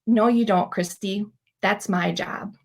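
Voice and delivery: calm reply. Retold or imitated. God answers her prayer.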